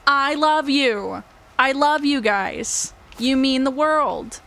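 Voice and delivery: slow, heartfelt I love you; sincere, meaning it. Shown as a demonstration. To viewers, slow and sincere, really meaning it. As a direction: say it slowly like you truly mean it. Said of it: "and actually mean it".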